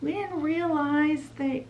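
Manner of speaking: high, far-off fairy voice fading into a whisper; stammering. Retold or imitated. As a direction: stammer guiltily, trailing off to a whisper. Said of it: "they start stammering".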